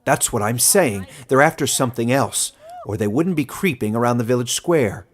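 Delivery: put-on insistent old man. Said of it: "said the old man".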